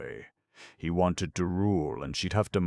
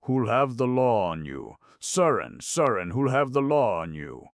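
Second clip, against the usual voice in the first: higher and louder, grave and dire, "have" and "law" leaned on; ominous repetition; 8 semitones higher, 6 dB louder than usual. A narrator's reading. Gamekeeper echoing Surin's question, grave and foreboding. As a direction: repeat his words back as if doom just got worse. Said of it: "in a tone as if something had been brought forward that made the situation very much worse".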